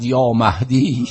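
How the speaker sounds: long drawn-out mournful call; slow, imitated cry for help; retold anguished cry. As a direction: cry out the name slowly, stretching the last vowel. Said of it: "فریاد زد".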